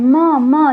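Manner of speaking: म said twice, isolated and clear; sounding out म. Shown as a demonstration. Teacher sounding out म so the children hear it. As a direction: sound out the letter म. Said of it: "यहाँ पर म की sound आ रही है".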